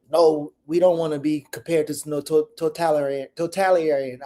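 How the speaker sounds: halting tries at "totalitarian" before getting it out; stumbling over "totalitarian". Real, not acted. Quoting a politician to co-hosts, stumbling over "totalitarian". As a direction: trip over "totalitarian", restarting after "to-". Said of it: "I can't say a word".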